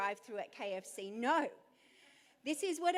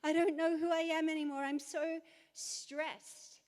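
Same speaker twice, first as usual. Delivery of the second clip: anxious Israel; 3 semitones higher than usual. Retold or imitated. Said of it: "and they're".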